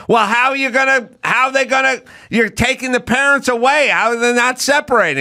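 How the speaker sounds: high, hammed-up indignant voice; mock outrage. Congresswoman mocked demanding answers of Homan, high. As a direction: squeak out the outrage.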